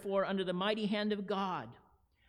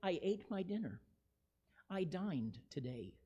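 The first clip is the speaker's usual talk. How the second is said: flat understated statement; 3 semitones lower, 6 dB quieter than usual. Shown as a demonstration. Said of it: "the difference be saying".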